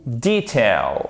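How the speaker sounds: detail as DEE-tail, drawn out; long, stressed DEE in detail; British pronunciation. Shown as a demonstration. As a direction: slowly model detail the British way. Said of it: "comme en version britannique".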